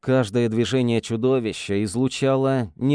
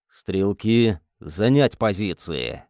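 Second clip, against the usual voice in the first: low hoarse half-whisper; 3 semitones lower, slower than usual. Acted. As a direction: rasp it out under breath. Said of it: "хриплым голосом прошептал Эстебан".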